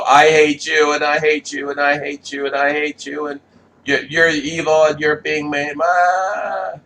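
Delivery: put-on high whiny shrieking child, loud at first; bratty child tantrum. Mimicking a kid screaming at mom in the store. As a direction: throw a mock toddler tantrum.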